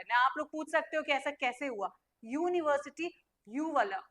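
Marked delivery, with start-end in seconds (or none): 2.2-3.2 यूनिवर्सिटी starting "yoo", not "oo"; y-sound demonstration. Shown as a demonstration. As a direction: show learners the "y" glide opening यूनिवर्सिटी. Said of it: "ऊ वाला sound नहीं आ रहा है". (यूनिवर्सिटी, "ऊ" नहीं "यू" से शुरू)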